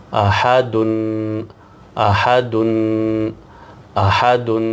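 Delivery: احدن said clearly as a-ha-dun; احدن صاف تلفظ کے ساتھ; correct ahadun. Shown as a demonstration. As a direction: model احدن slowly and clearly for the students. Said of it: "جس طرح پڑھنے کی میں کوشش کر رہا ہوں".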